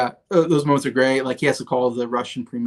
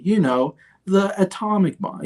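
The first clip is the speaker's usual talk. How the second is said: much higher, apologetic mock president voice; sheepish president; 7 semitones higher than usual. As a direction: squeak up to the last word like a guilty child. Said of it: "And he's going through".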